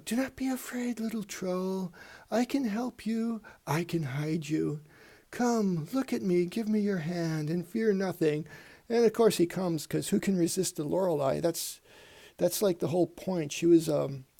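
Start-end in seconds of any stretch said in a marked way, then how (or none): 0.1-8.5 soft, hushed, coaxing siren voice; alluring siren. Acted. Lorelei softly coaxes the frightened troll to come, hushed and alluring. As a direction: lure the frightened troll gently closer. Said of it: "she bats her eyes at it and says".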